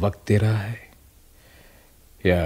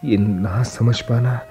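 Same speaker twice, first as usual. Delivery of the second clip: slow, whispered torment; anguished soliloquy; much slower than usual. Acted. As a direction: drag each word out in despair. Anguished inner monologue. (धीमी, फुसफुसाती पीड़ा)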